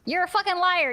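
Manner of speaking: mock anger. Accusing friend in play.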